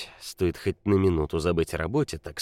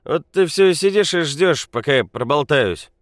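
put-on loud drunk rant; 5 semitones higher, 7 dB louder than usual. A narrator's reading. Drunk Nikola confides loudly.

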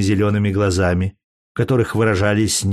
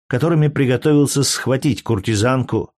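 plain reading voice

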